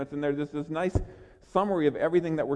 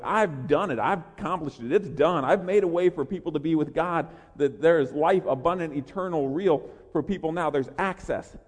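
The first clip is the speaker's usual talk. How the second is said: triumphant. Acted. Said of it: "I think he said it triumphantly".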